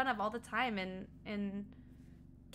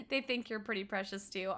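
normal talking voice

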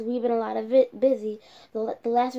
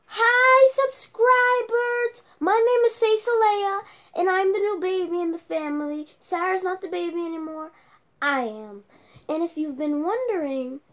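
put-on cheerful baby doll; 2 semitones higher than usual. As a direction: greet the fans as a sweet little doll. Doll Cecilia greets subscribers.

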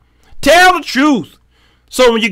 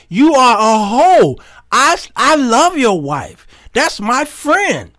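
emphatic scolding; slower than usual. Retold or imitated. Preacher scolds friend, emphatic.

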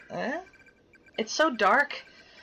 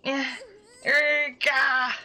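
a strained grunt trying to push; botched effort grunt effect; failed strain sound; 4 semitones higher, much slower than usual. Shown as a demonstration. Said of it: "my attempt at making sound effects failing".

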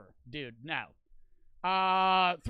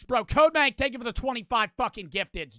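excited shout; 3 semitones higher, 6 dB louder than usual. Real, not acted.

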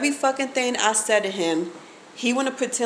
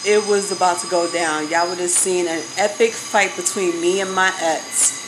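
louder, pumped up, telling y'all about the fight; loud excited telling; 4 dB louder than usual. Real, not acted. Vlogger tells viewers about the near fight, loud and worked up. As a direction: hype the near brawl to the viewers.

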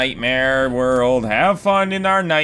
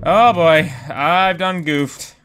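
goofy admission; 2 semitones higher, 4 dB louder, slower than usual. Acted. Realizing a mistake, goofy.

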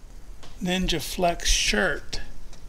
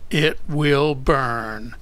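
slow, drawn-out imitation of an Australian; lightly attempted Australian phrasing, slowly; imitating special delivery; 4 dB louder, much slower than usual. Retelling an opal cutter's video warning, in a mock Australian way. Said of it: "He said it a special way".

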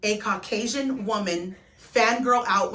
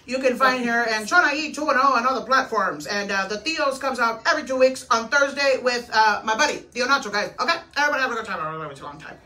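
Tío Chon voice. Pretend. Asked to be Tio Chon, lightly voiced drunk uncle plugging social media. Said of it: "Tio Chon's voice".

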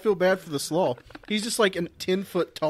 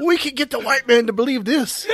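lightly acted schemer, pitched up; a touch higher, playing the plotter with a laugh; 6 semitones higher, 4 dB louder than usual. Comic riff on fooling explorers, mock scheming.

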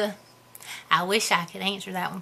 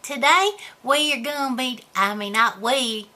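hillbilly character voice. Acted. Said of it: "I just started talking like this".

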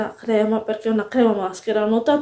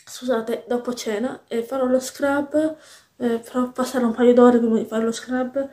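talking with something stuck in the throat; a frog in the throat, a bit strained; 4 dB quieter than usual. Real, not acted. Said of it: "ho qualcosa in gola".

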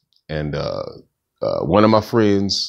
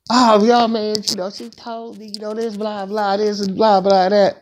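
higher, rushed friend voice babbling the gossip; lightly voiced buddy rattling off blah blah; imitating homeboy; 11 semitones higher than usual. Friend retelling what girl said.

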